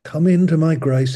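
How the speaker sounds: gentle repeated call by name; God calling each listener into grace. Retold or imitated. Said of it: "He's saying".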